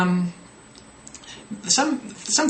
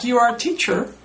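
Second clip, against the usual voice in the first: mock student error; 8 semitones higher, 4 dB louder than usual. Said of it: "They might say something like".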